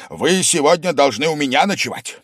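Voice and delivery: loud, high, rising yell. A narrator's reading. Host yells that he won't let the guest go. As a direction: build to a shout. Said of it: "завопил он опять".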